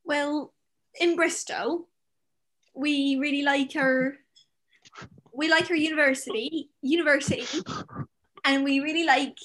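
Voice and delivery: put-on a light, hesitant Bristol accent. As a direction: try out a Bristolian accent on request. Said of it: "can you do your best Bristolian accent for us".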